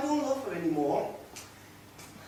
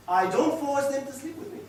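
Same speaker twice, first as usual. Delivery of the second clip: higher, firmer restatement rising at the end; insistent protest; 6 semitones higher than usual. Acted. Man insisting to his companion he is innocent, protesting. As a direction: insist on "don't", pitch lifted. Repeats the claim more insistently.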